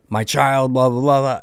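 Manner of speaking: mildly mock the neighbor's complaint; mocking imitation. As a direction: run it off into mocking blahs. Mimics neighbor harping on his kid.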